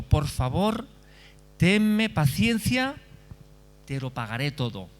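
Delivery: a slow, drawn-out plea for patience; begging servant. Acted. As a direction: beg him for time, stretching out tenme paciencia. Servant begs master for patience.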